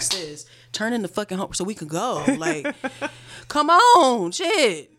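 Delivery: builds to a loud, high exasperated outburst; exasperated rant. Retold or imitated. Venting at the girl shuffling papers, exasperated and loud. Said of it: "I just get mad all over again".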